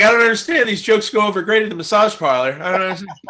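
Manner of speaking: loud, high mock bewilderment; Mick Thomas. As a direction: protest in hammed-up confusion. Mocks Mick baffled at failed jokes.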